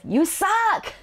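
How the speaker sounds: put-on high, childish outburst; indignant child. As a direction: hurl it like a sulking kid. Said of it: "kind of indignantly like a child".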